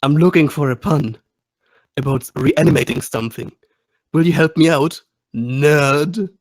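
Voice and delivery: deliberate, pointed threat with pauses; menacing. Acted. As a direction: lean on each phrase like a playful bully. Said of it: "I menacingly pick up something".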